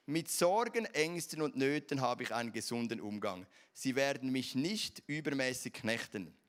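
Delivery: measured creed-like reading with firm stresses; recited declaration. Acted. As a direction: proclaim each sentence, starting strong and falling away. Recites morning declaration in High German.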